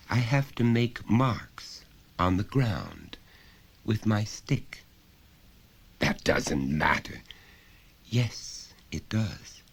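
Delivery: put-on a child answering simply; small boy. Son answering his father, lightly voiced child.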